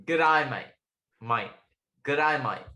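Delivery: learner's Aussie greeting, vowels widened to "eye"; Australian accent. Acted. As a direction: repeat it in a practised Australian accent. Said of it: "that sounds sort of like".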